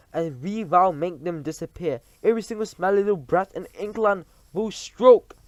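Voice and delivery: loud, high witch voice with a foreign lilt; villainous witch queen addressing her followers; Grand High Witch. Acted. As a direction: command the coven like a tyrant witch.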